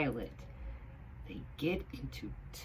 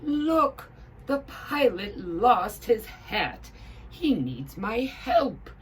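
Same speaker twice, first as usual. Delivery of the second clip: high, loud, slow cartoon hat voice; excited high hat shouting to help; 8 semitones higher, 8 dB louder, slower than usual. A narrator's reading. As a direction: call out eagerly as a squeaky little hat. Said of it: "shouts Higgins the high hat".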